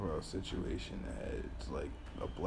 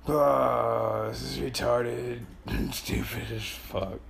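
slow and loud, laughing; loud laughing outburst; 3 semitones higher, 5 dB louder, much slower than usual. Real, not acted. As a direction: laugh it out loudly.

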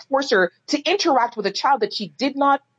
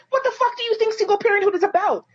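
real rising anger, pitched higher; getting mad; 9 semitones higher than usual. Real, not acted. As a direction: let the outrage burst out. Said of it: "you can hear that I'm getting, like, mad".

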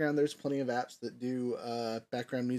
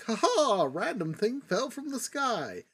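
high, laughing, goofy mock announcement; mock the cheap plot twist with a laugh; mocking silly voice; 10 semitones higher, 3 dB louder, slower than usual. Mocking a lazy plot device.

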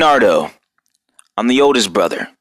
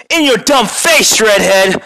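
taunting turtle; 8 semitones higher than usual. Acted. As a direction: crow it up high in a different voice. Taunting villain, second take.

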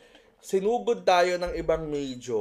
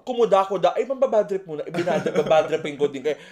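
mock ranting teacher; 5 dB louder than usual. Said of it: "pumasok ka ng klase para mag-walk out".

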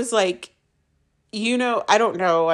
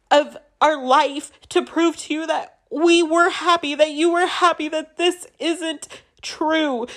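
higher, urgent, refusing to believe it; insistent pleading; 6 semitones higher than usual. Retold or imitated. Wife arguing with her husband that they were happy, high and urgent. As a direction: push back hard, half begging and half accusing. Retold argument, insisting he's wrong.

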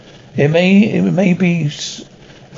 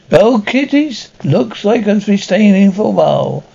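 creepy host; 3 semitones higher than usual. Acted. Host signs off to listeners.

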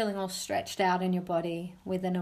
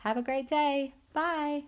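cheerful goodbye; 6 semitones higher than usual. Real, not acted. Cheerful sign-off to kids.

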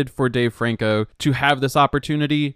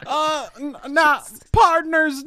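high, slow hick twang; hick Southern accent; 11 semitones higher than usual. Acted. Host greeting partners in a slow hick drawl. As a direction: drawl it like a backwoods cowboy. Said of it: "really, really hick".

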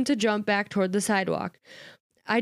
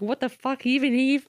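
higher-pitched, incredulous retelling; disbelief; 6 semitones higher than usual. Retold or imitated. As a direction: act out baffled disbelief, rising in pitch. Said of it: "she's like, disbelief".

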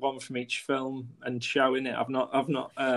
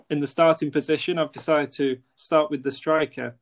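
stiff presenter read. Acted. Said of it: "why did I talk like that".

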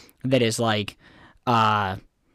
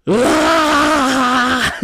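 high loud cry of frustration; mock-furious scream at the phone; frustrated yell; 14 semitones higher, 7 dB louder than usual. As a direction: let out an exasperated shout. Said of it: "I was like".

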